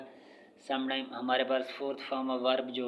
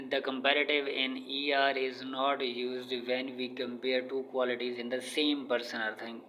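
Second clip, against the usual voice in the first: very slow, word by word, like dictating to a class; measured classroom dictation of an English rule; 3 dB quieter, much slower than usual. Shown as a demonstration. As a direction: read the rule out slowly for students to copy. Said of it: "reading English rule aloud".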